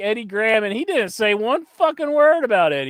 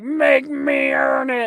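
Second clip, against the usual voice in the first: Cody Rhodes; 6 semitones higher, slower than usual. Retold or imitated. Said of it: "all screaming on Raw".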